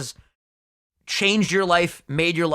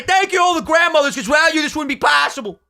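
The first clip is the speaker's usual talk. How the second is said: louder, higher hammed-up award thank-you; mock acceptance speech; 9 semitones higher, 4 dB louder than usual. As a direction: play it like a grand speech on stage. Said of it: "When we get up there and say".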